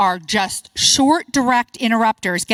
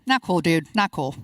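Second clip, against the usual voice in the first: student voice; 6 semitones lower, 4 dB quieter than usual. Retold or imitated. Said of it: "they do this one often".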